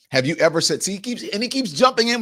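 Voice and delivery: loud, high mocking Vance voice. Mocking the vice president's pushy interruption, loud and high.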